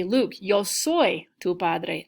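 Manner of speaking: slow Vader line, a touch of menace; lightly voiced movie villain, said right; mock Darth Vader, correct verb. Shown as a demonstration. Teacher playing Vader with the right verb, slowly and lightly. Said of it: "So I would wanna say".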